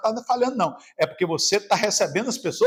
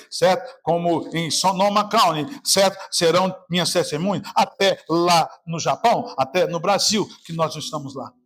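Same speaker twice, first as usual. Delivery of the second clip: scripture reading; 3 semitones lower than usual. Acted.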